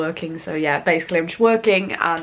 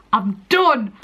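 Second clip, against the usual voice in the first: louder and firmer on the repeat; emphatic I'm done; 2 semitones higher, 4 dB louder than usual. Real, not acted. To herself after passing the test, louder relieved repeat. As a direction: land it, proud and relieved.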